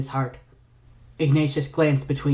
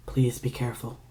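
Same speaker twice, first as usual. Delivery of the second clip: soft plea; 6 dB quieter than usual. Acted. Two pleading with his brother.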